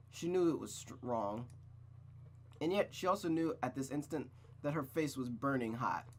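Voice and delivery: measured, unhurried storybook read; story narration. Acted. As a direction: narrate the scene with clear, deliberate phrasing. Reads the story aloud.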